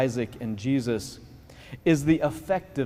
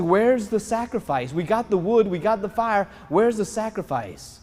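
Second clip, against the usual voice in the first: puzzled son; 6 semitones higher than usual. Retold or imitated. Isaac questions father about sacrifice.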